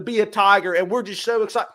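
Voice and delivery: a light fake Southern accent, mocking the new coach's cheer. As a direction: finish the put-on Southern accent with fake excitement. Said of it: "faking a Southern accent".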